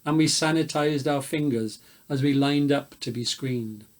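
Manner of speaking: put-on bush ballad read in a light New South Wales Australian accent; old South Walian accent. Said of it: "I'm gonna do it in an old South Walian accent".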